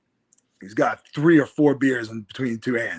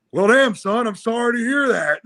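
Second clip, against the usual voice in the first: drawling Texan quip; 8 semitones higher, 7 dB louder than usual. Retold or imitated. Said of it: "He goes".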